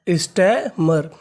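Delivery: स्टैमर stretched out very slowly; slow syllable by syllable. Shown as a demonstration. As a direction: model स्टैमर slowly for the class. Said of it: "तो पूरी meaning". (स्टैमर को बहुत धीरे खींचकर बोलें)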